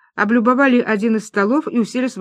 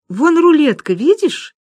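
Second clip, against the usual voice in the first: excited pointing out; 8 semitones higher, 5 dB louder, slower than usual. Acted. Люба points out roulette.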